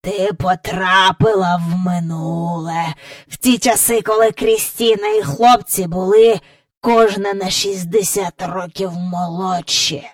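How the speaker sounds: lightly voiced old man; a touch of a gloating croak; croaking great-grandfather. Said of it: "каркав прадід".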